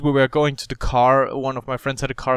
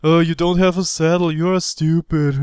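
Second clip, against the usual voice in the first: mocking teen; 2 semitones higher than usual. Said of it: "something like".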